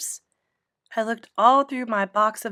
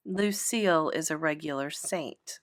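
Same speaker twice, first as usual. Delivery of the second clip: whispered aside; very quiet; 5 semitones lower, 7 dB quieter than usual. A narrator's reading. Mother whispering to herself about Lucille, hushed. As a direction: breathe it under your voice, dry. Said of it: "very quiet".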